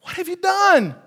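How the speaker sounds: stern divine question. Acted. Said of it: "Then the Lord asked the woman".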